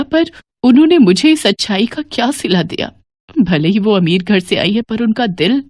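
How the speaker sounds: a hint of crying as she asks forgiveness; tearful. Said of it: "फूट-फूट कर रो पड़ती हैं". (हल्का रुआँसा, धीमा स्वर)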